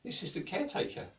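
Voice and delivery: high, meek little voice; timid Sven. Acted. Sven answering the king, high and meek. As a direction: introduce yourself shyly and high. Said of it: "And Sven said".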